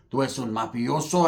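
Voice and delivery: lowish, soft accusing imitation; crazy paisa. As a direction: accuse him quietly in Spanish, spun out. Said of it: "he sounds all crazy".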